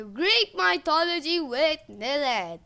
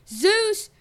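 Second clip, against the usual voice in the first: high, loud yell of a name; 8 semitones higher, 7 dB louder than usual. A narrator's reading. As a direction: call him out loudly.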